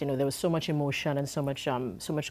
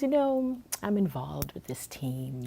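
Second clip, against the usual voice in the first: imitating a man's modest, softer aside; humble, offhand; 4 dB quieter, slower than usual. Team boss casually approaching the singer, humble and offhand. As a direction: toss it out casually, slowly and humbly. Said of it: "Really humble, like, just, you know, throwing it there".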